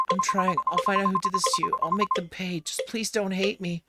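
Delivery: high-pitched desperate prayer; anguished begging; fervent, tearful pleading. Acted. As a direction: plead through tears to be believed. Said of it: "fervently to anyone or anything".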